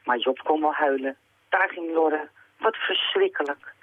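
touch of dismay in the telling; understated, downcast read-aloud; story narration. A narrator's reading. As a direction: end the reading slowly and ruefully. Closes the reading on boy's despair.

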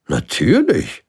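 loud royal certainty; certain king. Acted. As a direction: answer as self-evident. King answers. (selbstsicherer König, laut)

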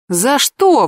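a sharp outraged question; indignant. A narrator's reading. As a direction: protest it, offended. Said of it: "возмутилась я".

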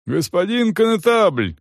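high calling shout to the constable; urgent guard's shout. A narrator's reading. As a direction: call out across the yard. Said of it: "крикнул стражник".

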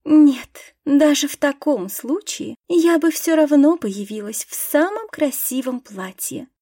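put-on proud society girl declaring; haughty. Горделивая тирада аристократки. (высокомерно и горячо)

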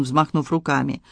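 ordinary delivery, nothing marked

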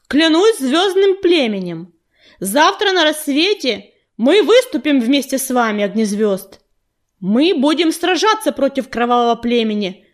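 медленная торжественная клятва; провозгласить с достоинством; торжественно. A narrator's reading. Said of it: "торжественно провозгласила она". (предводительница клянётся Огнезвёзду, торжественно)

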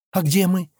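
high, mildly innocent question. A narrator's reading. Scolded girl asks where they are, innocently. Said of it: "невинным голосом спросила Адана".

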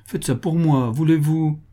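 a touch of pleading, coaxing. Acted. Fanny coaxing Laréole to agree, mild pleading. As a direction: ask sweetly for the favour. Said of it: "supplia Fanny".

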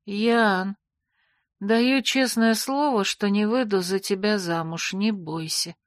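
drowsy slurring, slow and fading; slurred sleepy. Acted. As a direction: mumble half asleep. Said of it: "заплетающимся языком ответила".

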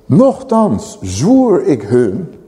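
Nochtans zwoer ik hun read slowly, word by word; slow solemn reading. Shown as a demonstration. Preacher reading the verse to the congregation, slow and solemn. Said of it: "Nog een keer".

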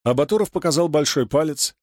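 ordinary delivery

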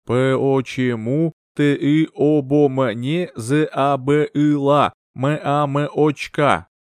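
very slow, eerie, drawn-out spirit voice; ghostly child voice. Acted. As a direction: let the words float in from beyond. Spirit message during the séance.

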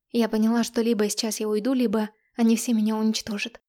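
plain reading voice

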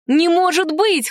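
high, slow cry of disbelief; can't believe what they hear; stunned exclamation. Acted. Siblings crying out in disbelief at the uncle, high and stunned. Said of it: "хором воскликнули мы".

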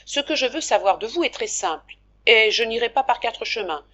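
lightly voiced Pierrotte, firm and forthright; blunt shopkeeper. Pierrotte putting his question to Daniel, lightly voiced and firm. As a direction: speak plainly like a merchant getting to the point.

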